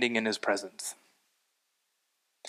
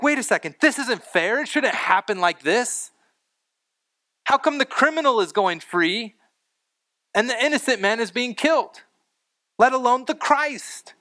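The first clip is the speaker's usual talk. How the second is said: mock protest to God, pitched higher; indignant protest; 5 semitones higher than usual. A believer objecting to God over unfair grace, indignant. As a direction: act out an objection, voice raised in pitch but not shouting. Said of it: "kinda wanna yell at God".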